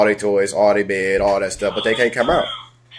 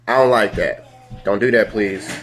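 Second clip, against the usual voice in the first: lower, calm correction after an outburst; nice, polite request; 4 semitones lower than usual. Retold or imitated. Setting a boundary after the outburst, calm and nice. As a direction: drop the pitch and ask politely. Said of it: "And I can be nice after that".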